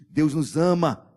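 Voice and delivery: a slow, full-voiced proclamation; loud, slow declaration. Real, not acted. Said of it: "repeated declaration, quiet then loud".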